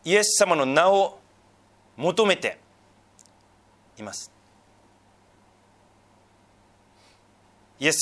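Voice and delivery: loud, deliberate sermon delivery in short phrases; emphatic preaching. Real, not acted. Pastor reminding the congregation of their faithfulness, emphatic preaching. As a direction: preach it out, driving each key phrase.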